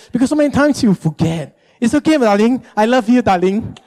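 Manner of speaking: mildly coaxing, understanding wife; respectful, gentle reminding. Acted. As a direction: gently reassure a forgetful husband. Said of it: "with a respectful spirit".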